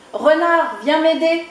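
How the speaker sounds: high, loud call to the fox. Acted. Chick calling the fox to come help him. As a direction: shout for rescue.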